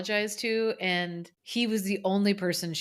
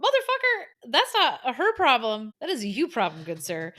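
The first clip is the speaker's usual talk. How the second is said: mock outrage; 3 semitones higher, 4 dB louder than usual. Retorting to the teacher.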